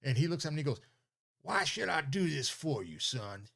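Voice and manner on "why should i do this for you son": mock-angry old official, pitched up; high-pitched grumpy mimicry, dropping at the end; angry governor. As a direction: imitate a grouchy governor challenging a young man. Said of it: "with an angry voice".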